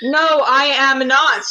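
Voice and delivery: slow, overly formal, no contractions; stiff formal speech. Retold or imitated. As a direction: speak like a polite robot. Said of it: "sound like a normal human and not a robot".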